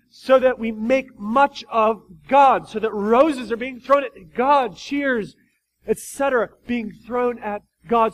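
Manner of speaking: loud, slow fervent preaching; emphatic preaching. Acted. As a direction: preach it with fire. Climactic preaching.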